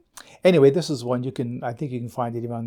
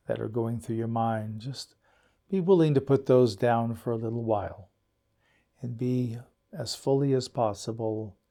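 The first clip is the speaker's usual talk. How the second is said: guided meditation. Acted. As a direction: ease listeners into stillness, letting each phrase settle. Leads the meditation.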